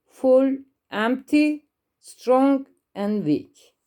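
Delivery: each adjective said as a separate list item; drilling a word list. Shown as a demonstration. Teacher reviewing adjectives with pupils, list-reading drill. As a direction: list them clearly one by one for the class. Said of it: "sıfatları şöyle bir tekrar edelim".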